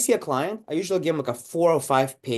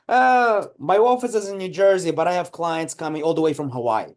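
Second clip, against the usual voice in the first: higher, louder self-satisfied answer; proud dentist voice; 4 semitones higher, 3 dB louder than usual. Retold or imitated. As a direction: boast like the question was easy.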